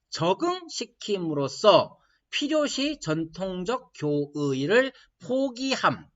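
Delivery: slow, measured reading of a definition; deliberate reading aloud. Real, not acted. Lecturer reads theologian's definition to class, slow deliberate reading. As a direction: read it out slowly, phrase by phrase.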